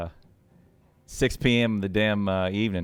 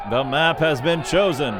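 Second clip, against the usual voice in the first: grand proclamation; 4 semitones higher, 4 dB louder than usual. Pretend. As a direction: announce "The map has been chosen" like a herald. Proclaims map choice again.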